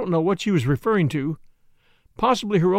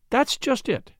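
higher-pitched, simple and unforced reply; simply; 7 semitones higher, slower than usual. A narrator's reading. Flora answering the doctor's objection, simply. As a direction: say it simply, in a lifted voice. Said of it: "said Flora simply".

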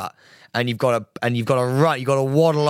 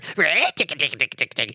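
orc noises; 3 semitones higher, slower than usual. Acted. Mocking a friend as a miserable orc, silly creature noises. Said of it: "miserable orc written all over you going".

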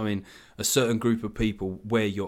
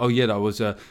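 Alan Partridge. Acted. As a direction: caricature of an older boomer man, slowing at the end. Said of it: "they'll then adopt that voice".

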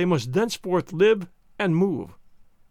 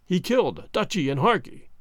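weary repetition. Acted. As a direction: say it once more, tired and set. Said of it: "repeating again and again".

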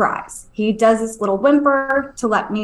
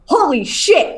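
mock yell without much volume; mild retold yell; 5 semitones higher, slower than usual. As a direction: re-enact a startled yell, higher pitched. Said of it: "and I yell".

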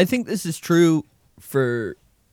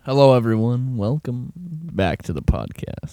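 broken mic sound; 6 semitones lower than usual. Real, not acted. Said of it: "the way I hear it now".

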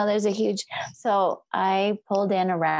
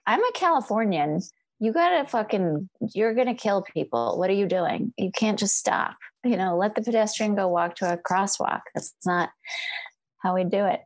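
temper. Retold or imitated. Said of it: "Can you hear my temper?".

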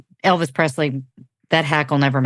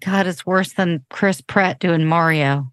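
exasperated groan; slower than usual. Real, not acted. Exasperated reaction.

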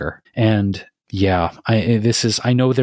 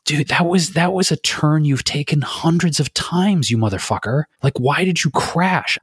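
angry at himself; 5 semitones higher than usual. Retold or imitated. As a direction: berate yourself for the crash. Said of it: "I was so angry at myself".

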